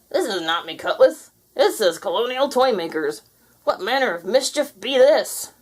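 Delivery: indignant pirate. Acted.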